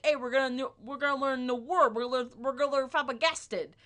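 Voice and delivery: loud, excited pretend teacher; mock eager teacher. Imagined English teacher announces a new word, loud mock enthusiasm.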